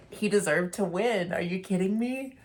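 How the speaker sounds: gushing high excitement over the winning pug; excited. Real, not acted. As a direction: burst out in delighted disbelief.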